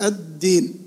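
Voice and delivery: الدين as ad-deen, held on the D; doubled dal. Shown as a demonstration. Teacher showing still then voweled dal, double D in الدين. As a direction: close on the D in الدين, then release. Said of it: "والثاني متحرك".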